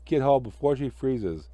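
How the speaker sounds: lightly voiced jolly snowman; Frosty.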